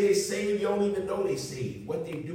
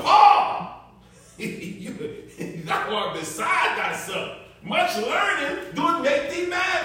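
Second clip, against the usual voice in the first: high, loud shouted rebuke; high shout of Festus, slowing down at the end; 9 semitones higher, 6 dB louder, much slower than usual. Acted. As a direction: bellow it at Paul like he's lost his mind. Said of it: "he said it with a loud one".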